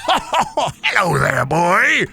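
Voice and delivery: high, slow gnome voice. Acted. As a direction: greet like a tiny magical gnome. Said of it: "He said".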